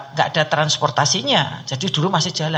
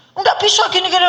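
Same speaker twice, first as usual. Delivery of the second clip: loud, high refusal; doctor scolding; 11 semitones higher, 4 dB louder than usual. Retold or imitated. Doctor refusing the pleading patient, loud scolding. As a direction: snap back a flat no. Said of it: "aku dimarah-marah gitu".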